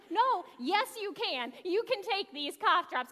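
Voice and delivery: mildly excited, eager insisting; excited insistence. Retold or imitated. Shop clerk insists customer take her cough drops, mildly excited. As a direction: imitate someone eagerly overruling a polite refusal. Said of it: "You get like that".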